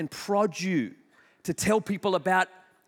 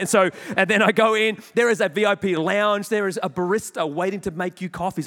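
louder with excitement at the lounge; excited; 6 dB louder than usual. Real, not acted. Preacher relives the VIP lounge, excited and louder. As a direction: tell it with growing delight.

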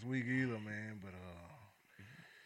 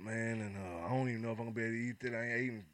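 stuffy nose; 3 dB quieter than usual. Acted. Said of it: "you sounding bad".

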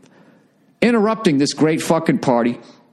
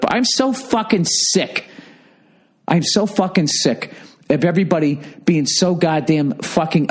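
fed-up rant. Real, not acted. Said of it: "I was so fucking mad at that guy".

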